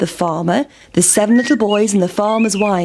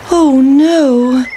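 higher, louder cry of dismay; pancake dismayed; 5 semitones higher, 6 dB louder than usual. A narrator's reading. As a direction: wail it like a pancake facing a river. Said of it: "said the pancake".

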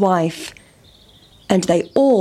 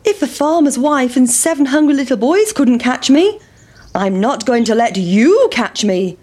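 lightly voiced taunting pancake, starting high; defiant pancake; 4 semitones higher than usual. Pancake taunting the farmer, defiant. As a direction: boast high, then settle down on the last part.

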